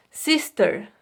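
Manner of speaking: "Sister" said clearly, English s sounds; careful pronunciation. Shown as a demonstration. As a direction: model the word "Sister" for students. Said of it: "Prestem atenção na pronúncia". (pronúncia clara de "Sister")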